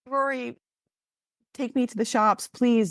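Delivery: put-on high-pitched kid pleading; begging. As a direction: re-enact begging a big sister. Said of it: "And I begged her".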